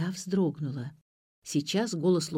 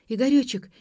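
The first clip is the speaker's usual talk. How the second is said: higher, anxious little call; a touch of fright in a high voice; frightened murmur; 7 semitones higher, 5 dB louder than usual. A narrator's reading. Ksyusha to Igor outside the car, frightened. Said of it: "испуганно пробормотала Ксюша".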